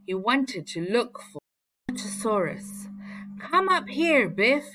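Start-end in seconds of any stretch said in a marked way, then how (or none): 3.4-4.7 high, louder call up the hill; boy on a hill calling his sister, raised voice. A narrator's reading. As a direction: call out to a friend below. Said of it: "he called".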